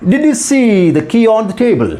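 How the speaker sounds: very slow, carefully spaced words; slow model sentence. Shown as a demonstration. Teacher modelling the sentence for students, slow and deliberate. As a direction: read it out slowly so learners can follow. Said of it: "model sentence read out".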